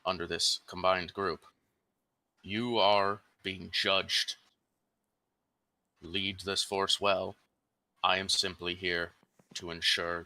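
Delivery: slow, grave chaplain, lightly voiced; a stern priest weighing each word; solemn chaplain.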